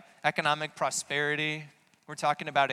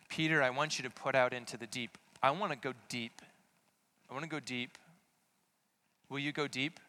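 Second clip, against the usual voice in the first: Jesus softly urging Peter out to sea; soft invitation; 2 semitones lower, 3 dB quieter than usual. Acted.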